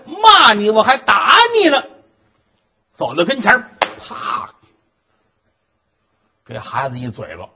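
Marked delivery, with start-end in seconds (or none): 0.1-1.8 high, loud threatening yell; angry threat. Acted. Stepmother threatens to hit the boy, angry shout.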